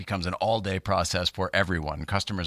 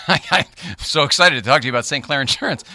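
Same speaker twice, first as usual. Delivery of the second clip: overexcited ad read; 6 semitones higher, 8 dB louder than usual. Acted. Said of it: "That's not what I meant".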